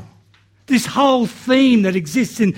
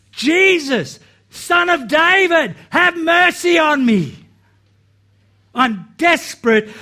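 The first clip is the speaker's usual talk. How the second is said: retold plea, called out high; yelling; 5 semitones higher than usual. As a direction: beg Jesus for help from the roadside. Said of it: "the more he yelled".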